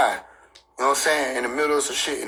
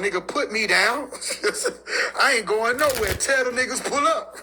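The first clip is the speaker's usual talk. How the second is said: laughing through a quote; 4 semitones higher than usual. Retold or imitated. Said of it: "somebody said".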